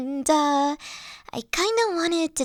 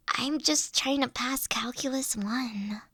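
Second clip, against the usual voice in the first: whispered aside, a bit softer; deadpan whisper; 6 dB quieter than usual. Acted. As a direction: drop to a whisper, almost embarrassed. Dragon downplaying, self-deprecating confession.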